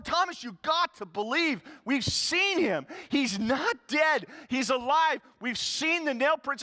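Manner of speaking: high and loud, slow hammered words; insistent disciples. Acted. Disciples telling Thomas again he's alive, loud and slow. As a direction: keep pressing, word by word.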